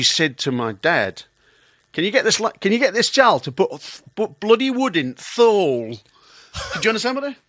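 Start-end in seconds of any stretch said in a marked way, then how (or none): 1.9-6.0 auntie's higher, broad northern English; Lancashire accent. Acted. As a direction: complain in broad Lancashire dialect. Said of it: "That's how they speak".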